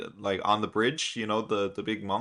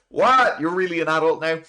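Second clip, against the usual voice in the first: high, loud shocked outburst, then quicker; mock astonishment; 6 semitones higher, 5 dB louder than usual. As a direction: act out stunned disbelief, pitched way up. Two characters astonished at Momo.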